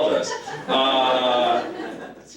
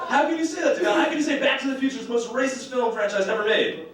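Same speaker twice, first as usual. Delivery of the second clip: mock indignation; 9 semitones higher than usual. Acts out an indignant objection.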